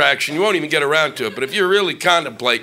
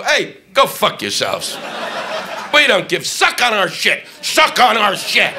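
arrogant taunt; 6 semitones higher, slower than usual. Retold or imitated. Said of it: "We go".

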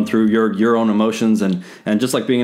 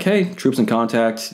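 slow, even report of contact; calm radio call; 2 semitones higher, slower than usual. Retold or imitated. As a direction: call it in cool and unhurried. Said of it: "calmly and coolly going through".

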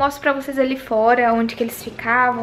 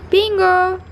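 calling out to the dog; 6 semitones higher, 4 dB louder than usual. Real, not acted. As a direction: call the dog's name across the yard.

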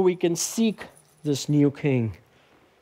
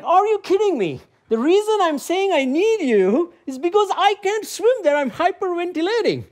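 much higher, louder frantic retelling; exasperated disbelief; 3 dB louder than usual. Retold or imitated. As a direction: replay the panic of being refused help in the water. Retelling panic with kayak volunteer.

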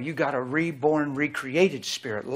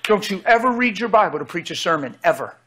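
voicing the Lord; 3 semitones higher, 4 dB louder than usual. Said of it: "what the Lord told me".

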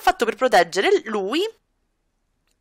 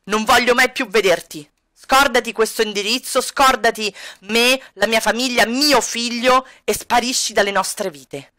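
Edo's voice. Acted. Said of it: "E lui si siede qua".

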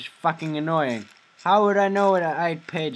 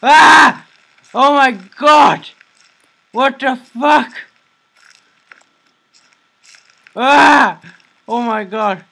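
screaming much higher and louder, slow drawn out; real panicked shriek at a jump scare; terrified scream; 9 semitones higher, 15 dB louder, much slower than usual. Real, not acted.

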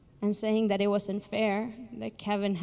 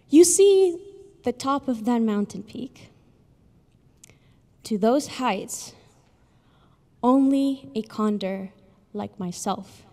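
loud, boastful condor bragging from above; 3 semitones higher, 7 dB louder, slower than usual. A narrator's reading. Condor boasting to the little snail, loud and proud. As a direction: puff up and brag, slow on the last lines. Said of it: "And boastingly".

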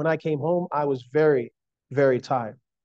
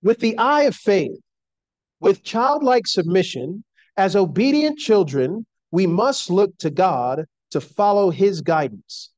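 measured, emphatic devotional reading; formal quotation reading. Acted. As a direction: read it out solemnly, lifting the key words. Reads a quotation aloud.

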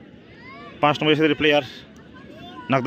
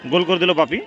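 excited goal call; 3 semitones higher than usual. Real, not acted. Goal scored in penalty shootout.

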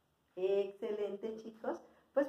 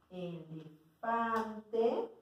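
"elefante" stretched very slowly; slow, dictation-style "elefante"; drawn out; much slower than usual. Shown as a demonstration. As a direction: sound out "elefante" bit by bit, holding the vowels. Teacher sounds out word while writing.

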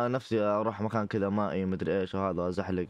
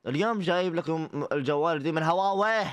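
imitating Faisal Al-Saif; 5 semitones higher than usual. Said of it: "كذا يقوله".

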